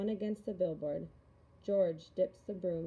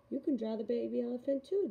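put-on light, higher girl's voice; little girl voice; 5 semitones higher, 5 dB louder than usual. A narrator's reading. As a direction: coax like a young girl. Julia voiced, encouraging child.

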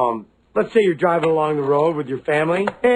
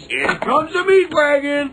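dramatic announcement; 9 semitones higher, slower than usual. Acted. Announcing the ambulance.

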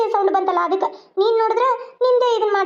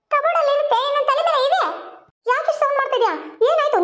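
irritated snap; 8 semitones higher than usual. Acted. Mother snaps at noisy daughter.

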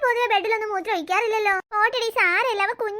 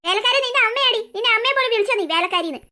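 raised-voice comeback; angry retort; 3 dB louder than usual. Acted. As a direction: hurl the insult straight back. Quarrel over servant insult. (ദേഷ്യത്തോടെ തിരിച്ചടിക്കുന്നു)

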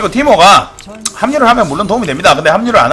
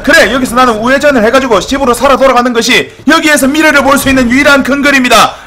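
imitated reasoning; 7 semitones higher, 4 dB louder than usual. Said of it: "라고 생각을 할 건데".

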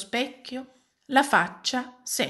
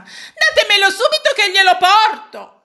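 high, loud insistent order; urgent demand; 9 semitones higher, 9 dB louder than usual. Acted. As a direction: demand it at once. Maid demands the nose. (pretesa urgente, acuta e forte)

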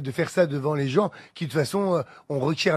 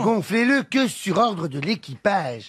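flight safety announcement; 3 semitones higher, slower than usual. Shown as a demonstration. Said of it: "Vas-y, je te suis ... Fais-le".

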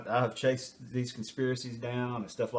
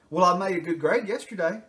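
put-on higher, louder childish protest; deflecting kid; 6 semitones higher, 4 dB louder than usual. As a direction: point at someone else. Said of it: "anything to deflect".

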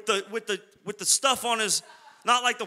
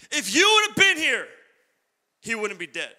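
anguished cry; 3 semitones higher, 5 dB louder than usual. Retold or imitated. Sisters crying out to Jesus, loud and anguished. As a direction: cry it out in grief. Preacher voicing the sisters' lament.

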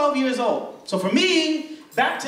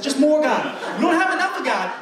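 hammed-up preacher, rising; building preacher. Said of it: "That was a black church".

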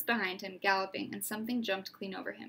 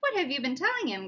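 growl; 5 semitones higher, 4 dB louder than usual. Acted. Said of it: "growled Bane".

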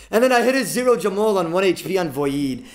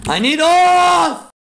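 loud, high, slow drawn-out cry; desperate yell; 12 semitones higher, 9 dB louder, much slower than usual. Real, not acted. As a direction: wail it like you're begging.

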